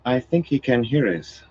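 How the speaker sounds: cool, even woman's voice; calm. A narrator's reading. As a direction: break in calmly. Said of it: "Ailil broke in calmly".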